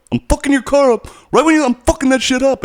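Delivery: high, loud tough-guy threat; mock threat. Neighbor threatening to wreck his car, hammed-up angry yell. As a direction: sneer it like a street bully.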